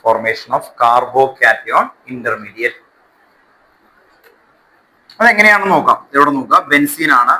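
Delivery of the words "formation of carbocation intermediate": extremely slow, syllable by syllable; slow dictation. Shown as a demonstration. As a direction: dictate it very slowly for notes. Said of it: "എഴുതാം".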